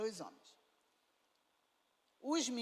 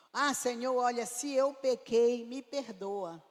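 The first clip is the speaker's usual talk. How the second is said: a vague, offhand mock prayer, a bit louder; casual half-hearted confession; 4 dB louder than usual. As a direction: toss off the apology lightly, as if it costs nothing. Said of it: "Que se pequei nada". (confissão vaga e descompromissada, em tom de imitação)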